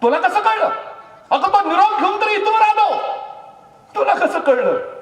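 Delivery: high, loud startled question; a shocked king's high, loud cry. Acted. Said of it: "आणि चमकले राजा".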